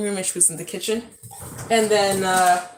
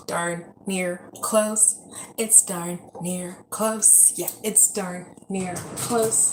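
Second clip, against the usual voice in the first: slow drawn-out repeat; 3 semitones lower, 7 dB quieter, much slower than usual. Shown as a demonstration. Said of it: "repeats phrase, slowing and softening".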